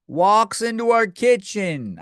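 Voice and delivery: high, drawn-out disbelief; slow incredulous exclamation; incredulous repeat. Real, not acted.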